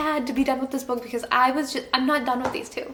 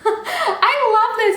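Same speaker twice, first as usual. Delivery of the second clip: laughing; 11 semitones higher, 7 dB louder, much slower than usual. Real, not acted. Gushing about the book, laughing.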